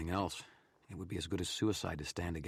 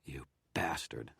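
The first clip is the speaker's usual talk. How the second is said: snarled; slower than usual. Acted. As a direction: spit the insult under your breath. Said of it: "I snarled".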